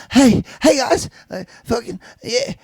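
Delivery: high, mock Boston tough guy; hammy Boston voice imitating a rapper; Boston accent. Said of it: "he's like".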